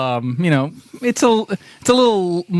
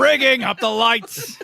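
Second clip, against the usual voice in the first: squeaky mock voice; 5 semitones higher, slower than usual. Mock voice laughing.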